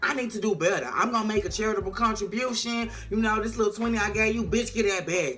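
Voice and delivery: high, eager landlord voice; light lift into a giving mood; landlord turned generous. Retold or imitated. Landlord in a TV recap suddenly eager to donate. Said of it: "So she was like".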